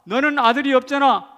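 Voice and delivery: loud, high-pitched jeer; imitated spiteful needling; glaring taunt. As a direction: taunt a rival over what they lack. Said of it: "한나를 째려보고 있을 때".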